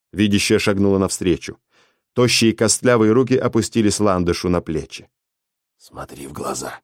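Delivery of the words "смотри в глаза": low cracked rasp; hoarse command. Acted. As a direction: rasp an order like an old seer. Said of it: "хриплым, надтреснутым голосом велела". (хриплый надтреснутый приказ)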